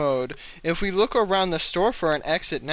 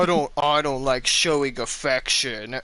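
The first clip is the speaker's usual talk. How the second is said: put-on brooding emo voice, pitched lower; 3 semitones lower than usual. Joking about a character's emo aesthetic, the speaker mocks him: mock-brooding Revenant voice. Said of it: "it's so fucking emo aesthetic".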